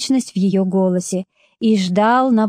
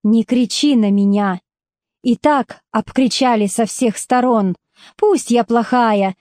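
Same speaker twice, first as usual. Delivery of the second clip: through tears. Acted. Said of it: "произнесла сквозь слёзы".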